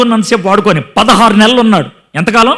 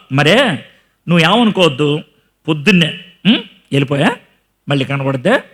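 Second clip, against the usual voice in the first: lower, much softer fake courtesy; a sweetly polite brush-off, hushed; mock polite; 6 semitones lower, 4 dB quieter than usual. King Achish politely dismissing David, mock soft and courteous. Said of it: "అది కూడా ఎంత మర్యాదగా".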